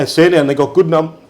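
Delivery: talking with the hiccups. Real, not acted. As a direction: hiccup breaks the word. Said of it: "pardon me, I got the hiccups".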